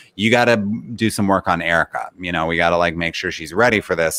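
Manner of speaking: ordinary delivery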